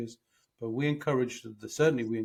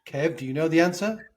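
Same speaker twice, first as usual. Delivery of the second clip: loud, high-pitched emphatic question and answer; mock incredulous questioning; 5 semitones higher, 7 dB louder than usual. Acting out a client's question and his own frank answer, loudly emphatic. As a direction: exclaim it, voice swooping high and loud. Acts out being asked a question.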